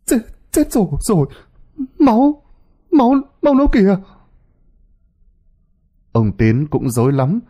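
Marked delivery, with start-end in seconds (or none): 0.0-4.0 high, panicked, stumbling words; fast, high-pitched panic over the blood; terrified stammer. Acted. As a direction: blurt it out shaking with fright. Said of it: "run lên cầm cập, miệng lắp bắp".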